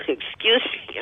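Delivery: coughing mid-sentence. Real, not acted. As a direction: cough then excuse yourself. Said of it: "I'm coughing".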